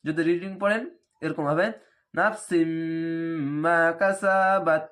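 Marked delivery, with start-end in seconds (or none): 2.1-4.8 read quickly. Shown as a demonstration. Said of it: "এভাবে দ্রুত পড়তে হবে".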